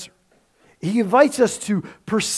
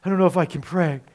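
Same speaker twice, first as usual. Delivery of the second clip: low, mildly weary mock reluctance; a touch of acted heaviness; burdened; 4 semitones lower than usual. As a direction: sigh it as if prayer were a chore. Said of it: "this sense of heavy and duty".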